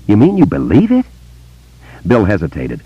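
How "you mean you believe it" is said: put-on higher, eager boy's voice; young boy. A narrator's reading. Boy telling Bill about voices, in a higher boy's voice. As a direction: voice a wary small boy telling a secret.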